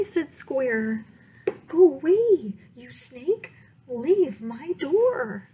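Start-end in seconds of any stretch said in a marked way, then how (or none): 1.7-5.5 scared shooing. Acted. Frightened Square shoos snake.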